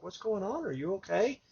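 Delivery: retold tender concern; gentle concern. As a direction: check gently on someone upset. Gently checking on crying store clerk.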